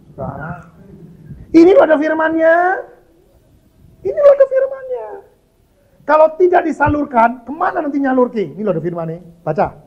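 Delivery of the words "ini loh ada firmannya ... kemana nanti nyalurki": high, loud insistence; preacher's shout. Real, not acted. Preacher pointing the congregation to the written word, shouting. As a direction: cry it out at full force, pitched way up.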